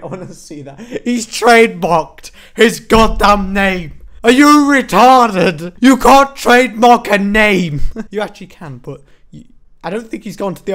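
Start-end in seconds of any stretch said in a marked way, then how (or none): 0.8-4.0 slow, stunned disbelief; drawn out in disbelief; spelling out each word in shock. Real, not acted. Incredulous repeat of the claim. 4.2-7.8 slow, loud indignant scolding; drawn-out, louder outrage; outraged. Real, not acted. Outraged at the trademark.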